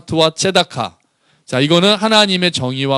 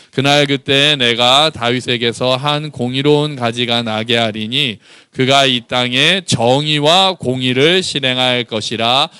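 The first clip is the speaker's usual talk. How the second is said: slow, measured Bible reading; scripture reading; 2 semitones lower, slower than usual. Acted. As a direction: lead the congregation through the verse slowly. Leads congregation reading scripture. (천천히 또박또박 성경 봉독)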